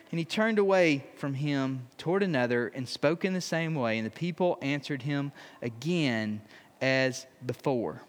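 measured, solemn Bible reading; scripture reading. Acted. Pastor reading scripture to the congregation, solemn reading. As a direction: read the passage aloud with weight.

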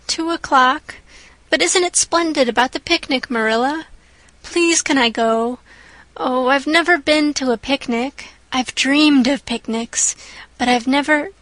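lightly voiced excited child begging; eager young girl. Anne begs Marilla about the picnic, eager and girlish.

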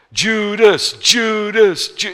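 a mock chorus of accusers; mock accusing. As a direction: point the finger, teasing the crowd. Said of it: "we always think".

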